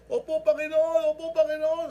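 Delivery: loud high begging; hanging man's frantic reply; desperate answer. Retold or imitated. Desperate man answering God.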